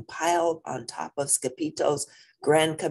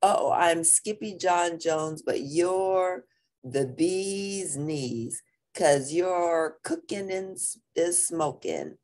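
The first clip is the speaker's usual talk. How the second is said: lilting, stretched-out little verse; bouncy sincere rhyme; slower than usual. A narrator's reading. Kitty boy reciting for his mama, bouncy sincerity. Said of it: "the most sincere bounce".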